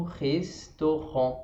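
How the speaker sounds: slow restaurant with a throaty R and silent T; restaurant, the final T never said; French restaurant. Shown as a demonstration. Teacher drilling restaurant, slowly and clearly. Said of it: "É aqui na garganta de novo".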